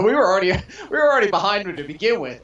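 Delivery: words broken by real laughter; laughing. Real, not acted. Laughing while admitting he and his buddy already backed Crabtree. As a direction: chuckle through the admission. Laughing at their own bias.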